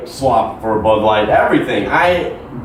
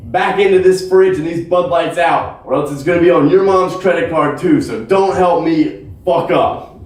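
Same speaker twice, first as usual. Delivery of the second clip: urgent warning; 5 semitones higher than usual. Retold or imitated. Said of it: "Meredith is flipping out, and I'm saying".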